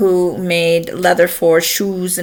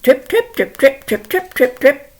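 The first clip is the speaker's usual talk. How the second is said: lightly voiced hoof trips; higher, evenly tapped syllables; brisk little patter of hooves; medium goat's footsteps; 7 semitones higher than usual. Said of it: "along comes me and Billy Goat".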